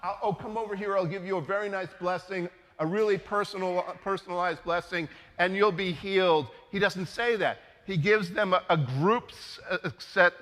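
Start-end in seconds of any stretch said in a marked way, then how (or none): 0.0-6.5 mock-sweet offer. Shown as a demonstration. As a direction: sell it like a cozy pampering blessing. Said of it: "the first thing that Jesus says in response to them is not".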